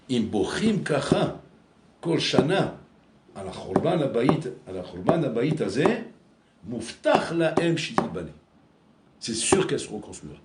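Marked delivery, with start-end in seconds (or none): 0.1-8.3 citation solennelle. Retold or imitated. Citation solennelle de Napoléon en hébreu.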